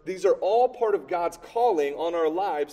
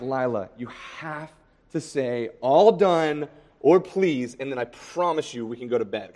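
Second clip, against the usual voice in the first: firm parent. Retold or imitated. Parent laying down the rule to toddler.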